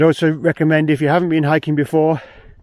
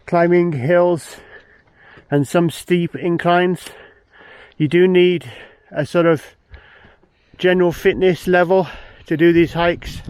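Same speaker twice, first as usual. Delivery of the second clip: out of breath. Real, not acted. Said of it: "you can hear that I'm slightly out of breath now".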